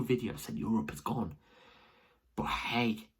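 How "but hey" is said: breathless from celebrating; puffing between words; out of breath. Real, not acted. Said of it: "I'm out of breath".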